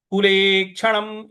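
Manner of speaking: कुले क्षणम with the final म clipped short; halant on म. Shown as a demonstration. Teacher demonstrating the halant on the final म of कुले क्षणम. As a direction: say कुले क्षणम slowly, the म not fully voiced. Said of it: "इस प्रकार से बोलेंगे".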